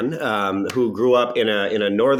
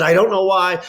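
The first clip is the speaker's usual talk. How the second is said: higher, louder mock-British protest; put-on British voice, raised in bewilderment; imitated British accent; 9 semitones higher, 6 dB louder than usual. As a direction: imitate a baffled man stuck in a British accent. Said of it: "Tom was doing a British accent".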